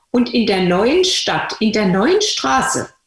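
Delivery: "neuen" leaned on, slow delivery; stress on neuen. Shown as a demonstration. Telling the patient's childhood move, slow with stress on "neuen". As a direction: hit "neuen" in both phrases, slowly. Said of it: "stressing move to new town".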